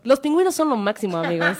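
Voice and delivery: versión limpia, un poco más rápida; versión decente. Shown as a demonstration. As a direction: dilo bien portado para la radio. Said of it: "Lo voy a volver a decir para el Spotify". (versión formal y decente)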